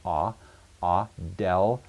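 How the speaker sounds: "ah, del" said piece by piece, with pauses; sounding out syllables. Shown as a demonstration. Teacher breaking down a Greek word, "ah, del" syllable by syllable. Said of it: "Alpha makes an ah sound".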